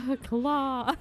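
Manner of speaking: awed squeaky alien cry; toy alien voice. Retold or imitated. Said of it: "Look at Spider Bing Bong and go".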